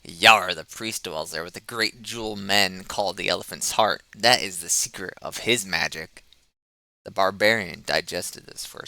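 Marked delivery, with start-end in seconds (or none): 0.0-6.2 loud boast. Acted. Rogue boasting to the tavern.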